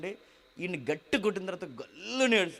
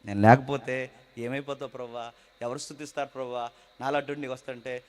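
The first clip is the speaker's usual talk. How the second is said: put-on tender childlike plea; 5 semitones lower than usual. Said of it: "ఆ ముచ్చట చూసారు".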